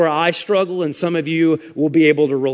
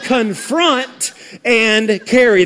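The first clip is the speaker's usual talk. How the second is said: "and" set apart and weighted between "confront" and "carry"; slow down and lean on the word "and"; stress on "and"; 5 semitones higher, much slower than usual. Real, not acted. Preacher insisting both duties matter, stress on "and". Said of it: "I'm emphasizing the word and".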